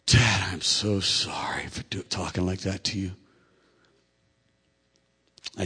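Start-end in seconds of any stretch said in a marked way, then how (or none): 0.1-3.1 humble, broken. Retold or imitated. Son sitting next to dad after yelling, humble apology. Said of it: "humble, broken".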